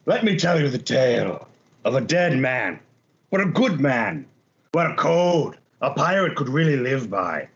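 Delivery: theatrical tale-telling with pauses between phrases; lightly voiced pirate eulogizing a dead comrade; pirate storyteller. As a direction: spin the tale for the whole tavern, phrase by phrase. Player begins a pirate's eulogy.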